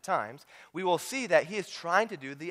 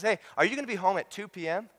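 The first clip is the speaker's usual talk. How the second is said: mock polite thief phone call. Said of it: "what thief calls up your house and says".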